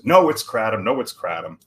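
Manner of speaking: mock-insist on KRAT-um, then repeat it; insistent stickler. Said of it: "I was a stickler".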